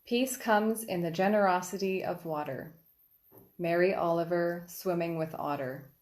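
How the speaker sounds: even, measured recital with pauses between phrases; poetry reading. Acted. Poet reads Rivers, on the sharing of the peace, measured recital. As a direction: read the poem aloud line by line. Reads own poem aloud.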